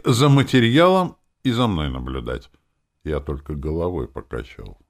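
ordinary delivery, nothing marked

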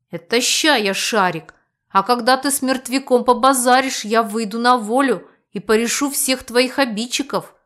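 pompous. Acted. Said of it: "пафосно изрёк он".

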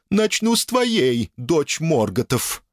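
high, slow ghostly threat; menacing ghost. Acted. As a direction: hiss it at the princess. Sierra threatens princess. (зловещий призрак)

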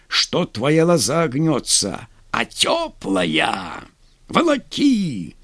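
slow, leering eager call; ecstatic shout. A narrator's reading. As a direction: relish it, half-mad with glee. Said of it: "почти с восторгом закричал Рябой".

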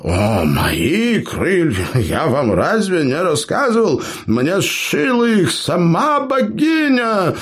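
high, bragging storyteller voice; boastful gnome. Acted. Gnome brags to clanmates, high boastful voice. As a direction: brag to the wide-eyed listeners. Eber tells his tale.

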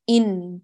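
إن cut short at the end; clipped ending. Shown as a demonstration. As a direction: drop the final sound of إن abruptly. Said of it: "لا تطفي في الأخير".

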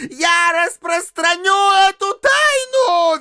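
very high, slow squeal. A narrator's reading. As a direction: squeal it out in spite. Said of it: "визжал Фома".

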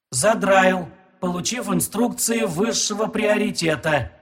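quiet flat machine voice; computer processing. Acted. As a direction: speak like a calm computer. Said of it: "тихим механическим голосом".

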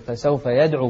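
brisk يدعو with a bounced د; popped, released د before ع in يدعو; qalqala. Shown as a demonstration. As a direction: quickly echo the د in يدعو. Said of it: "بالقلقلة".

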